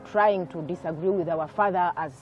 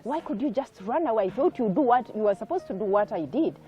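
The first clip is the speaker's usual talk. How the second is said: higher mock scolding, a touch of anger; retold angry scolding; 4 semitones higher, 3 dB louder than usual. Mother scolding the children for running from father, mild retold anger. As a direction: imitate mother telling off her kids, mildly. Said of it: "she was so angry with us".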